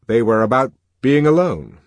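put-on lively young man voice; voiced character, animated; Helmholtz voice.

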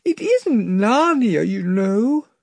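high tearful girl, a hint of a sob; Lucy tells Aslan it is him she will miss, tearful; lightly sobbing. A narrator's reading. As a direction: plead through held-back tears. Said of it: "sobbed Lucy".

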